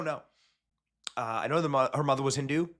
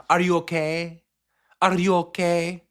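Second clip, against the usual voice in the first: higher, drawn-out put-on Latinx accent; mock Latinx accent; 4 semitones higher, 3 dB louder, slower than usual. Host mocking a candidate's pandering to voters, mock Latinx accent. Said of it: "so close to doing the accent".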